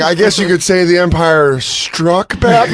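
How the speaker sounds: slow, deliberate film-title line; mock title drop. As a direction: labour the title as if it were clever. Parody of clunky title drop.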